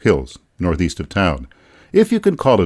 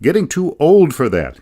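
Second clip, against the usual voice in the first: mock grumble, pitched much higher; harping complaint; 9 semitones higher than usual. Narrator quoting Deacon's grumbling about the dance, mock harping. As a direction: quote the old-timer's gripe in a lifted voice. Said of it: "he harped".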